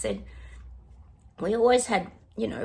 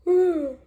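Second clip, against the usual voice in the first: weary yawn; 12 semitones higher, 7 dB louder than usual. Real, not acted. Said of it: "Sorry, I'm yawning".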